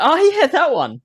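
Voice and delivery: high mock voice; imitating himself. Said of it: "And I'm like".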